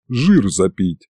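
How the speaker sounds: slow, understated wistful sigh. A narrator's reading. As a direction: let it out slowly, sighing. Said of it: "вздохнула правая".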